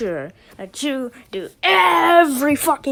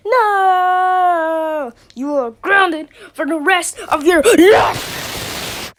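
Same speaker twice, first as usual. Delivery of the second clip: loud, higher, slow angry verdict; furious grounding; 4 semitones higher, 7 dB louder, much slower than usual. Acted. Parent yelling at the kid that he is grounded. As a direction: hammer out the punishment.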